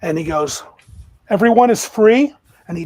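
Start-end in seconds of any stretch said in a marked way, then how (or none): 1.3-2.4 loud, raised announcement; ringing, high declaration of freedom; proclamation. Acted. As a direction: proclaim it to the whole ship. Freed elf proclaims liberty to crew.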